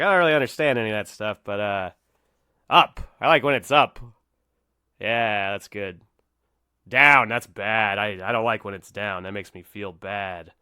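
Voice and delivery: a lightly voiced deadpan comic, loud on up and down; a bad half-hearted take on a dim stock joke; Norm Macdonald impression. Comedian's stock joke, retold as a weak deadpan impression. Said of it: "that was a really bad Norm Macdonald impression".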